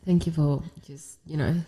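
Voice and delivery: blocked nose; congested. Real, not acted. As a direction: talk through a stuffy nose. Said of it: "I'm gonna be congested".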